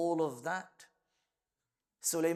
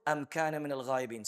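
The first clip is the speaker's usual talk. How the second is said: fast, louder chanted recitation; Quranic recitation; 4 dB louder, much faster than usual. Acted. Teacher quotes Sulaiman's words for his class, chanted recitation. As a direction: chant the verse with conviction. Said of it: "So he said".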